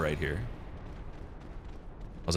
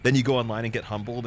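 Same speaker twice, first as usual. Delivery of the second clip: normal talking voice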